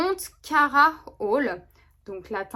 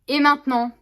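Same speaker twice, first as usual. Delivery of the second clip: showpiece announcement; 4 semitones higher, 8 dB louder than usual. Real, not acted. Announcing the highlight step.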